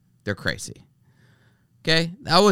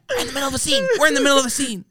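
much higher, pleading whine; mock whiny crew woman; 10 semitones higher, much faster than usual. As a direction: wail it like a fussy set assistant. Mocking crew woman's plea.

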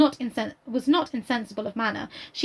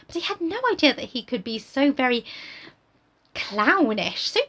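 lofty Emma; 4 semitones higher than usual. Acted. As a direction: look down on him. Reads Emma's reply.

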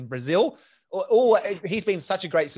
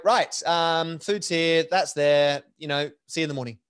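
brisk matter-of-fact; 2 semitones higher, slower than usual. Retold or imitated. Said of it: "Just fast, efficient".

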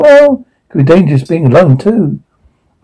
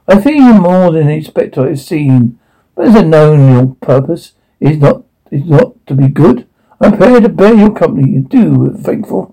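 theatrical Dickens recital; dramatic monologue. Acted. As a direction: declaim it to the stage. Audition monologue performance.

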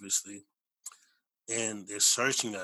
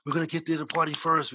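playful, raised, louder quote; joking boast; 6 semitones higher, 5 dB louder than usual. Retold or imitated. Friends teasing each other as they take separate cabs, joking boast. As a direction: toss it out as a joking race to the party. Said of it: "we're, like, joking".

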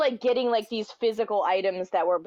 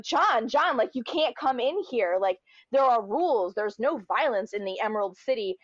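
wag a finger about the rules; fussy wizard; 2 semitones higher than usual. Retold or imitated. Wizard stopping John at the door, mild fussy scolding.

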